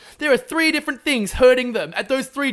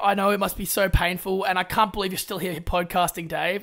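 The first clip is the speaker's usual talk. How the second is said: gushing sympathy. Acted. Acted fawning sympathy for friend.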